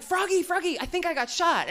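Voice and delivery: hammed-up alarm at being shot; mock panic. Comic telling her friend she was shot, in mock panic.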